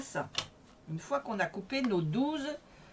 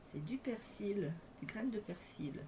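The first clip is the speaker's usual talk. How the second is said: whispering; 7 dB quieter than usual. Real, not acted. Whispers the find to herself.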